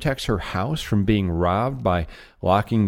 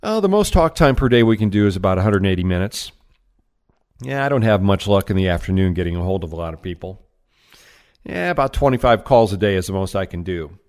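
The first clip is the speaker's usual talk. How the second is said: fast, slightly louder run of rep excuses; rattled-off excuses; 3 semitones lower, 4 dB louder, faster than usual. Retold or imitated. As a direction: reel off the excuses quickly like a tired sales rep. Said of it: "statements that I've heard from sales reps".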